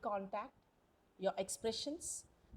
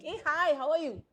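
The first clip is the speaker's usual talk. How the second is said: louder, higher, upbeat greeting; happy, rising inflection; 5 semitones higher, 7 dB louder than usual. Shown as a demonstration. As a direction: greet someone brightly as if delighted. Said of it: "when you're happy".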